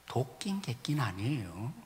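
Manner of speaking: 도끼인 객긴 아니에요 breathed in a whisper; whispered confession. Retold or imitated. Pastor confesses at the cross in a whisper. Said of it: "김동호 목사님 이렇게 말해요".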